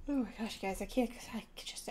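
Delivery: talking through a yawn. Real, not acted. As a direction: yawn between the words. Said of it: "I can't stop yawning".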